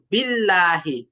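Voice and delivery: বিল্লাহি with a thin, light lam, slowed down; light lam demo. Shown as a demonstration. Teacher shows students the light lam in বিল্লাহি. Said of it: "বারিক বা চিকন হয়েছে".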